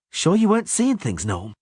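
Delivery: high, sharp doubtful voice; sceptical huntress. A narrator's reading. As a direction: challenge the gnome. Milva voiced in audiobook.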